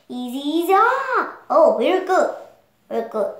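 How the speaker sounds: nervous caution. Acted. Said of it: "he took control".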